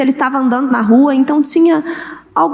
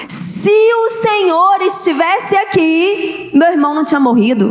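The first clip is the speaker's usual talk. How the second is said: reproachful Martha; 3 semitones higher than usual. Retold or imitated. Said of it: "Tudo depende da entonação da voz".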